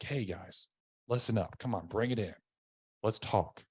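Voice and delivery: calling soldiers in, gently; soft, relaxed call to the troops. Retold or imitated. Sergeant invites his soldiers in, quietly and friendly. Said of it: "I'm like".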